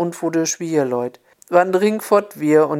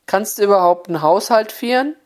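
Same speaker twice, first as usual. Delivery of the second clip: mother-in-law in broad Oberhessian Platt, a bit raised; Oberhessian dialect; 4 semitones higher, faster than usual. Retold or imitated. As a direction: snap it out in village dialect. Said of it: "damit die Schwiegertochter es auch verstehen konnt".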